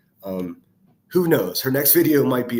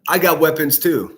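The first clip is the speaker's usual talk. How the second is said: loud, heated shout straight at her; angry shout; 3 semitones higher, 7 dB louder than usual. Real, not acted. Vlogger shouting at Rowena's clip, loud and furious. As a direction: yell it back at the screen, furious.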